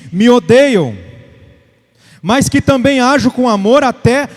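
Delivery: emphatic, measured scripture declamation; preaching scripture. Real, not acted. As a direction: proclaim the verse to the congregation. (proclamando a Escritura com ênfase)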